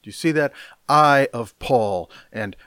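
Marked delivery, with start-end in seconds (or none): 0.9-2.1 "I" hit loud, the phrase slow; stress on I. Shown as a demonstration. Preacher quoting the boasting Corinthians, loud stress on "I". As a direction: punch "I" and stretch it out. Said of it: "the emphasis is on "I".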